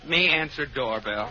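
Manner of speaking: put-on pidgin island woman; South Sea Island native. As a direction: stay in the island-siren act. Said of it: "like me better as a South Sea Island".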